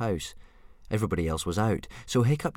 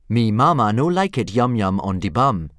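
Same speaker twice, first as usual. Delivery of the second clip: spoken Dragonese; 3 semitones higher, 8 dB louder than usual. Acted. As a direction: pop out the strange dragon words. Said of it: "punctuated by shrill shrieks and popping noises".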